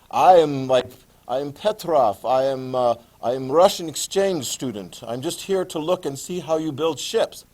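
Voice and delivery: lightly mocked Russian accent, broken English; joking Russian accent. Tsar in disguise joking to class, mock Russian accent. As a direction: play a clumsy undercover Russian student in a hint of a Russian accent. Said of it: "I kind of joke about it. I can be like".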